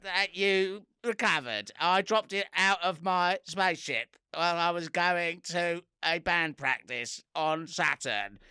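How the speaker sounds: slow, drawn-out alien voice; slow otherworldly alien drone. Acted. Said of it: "I'm doing the alien voice".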